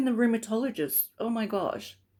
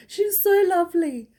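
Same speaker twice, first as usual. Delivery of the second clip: laughing through it, higher and louder; laughing fondly; 11 semitones higher, 7 dB louder than usual. Real, not acted. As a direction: bubble over with laughter as you say it. Laughing after funny story.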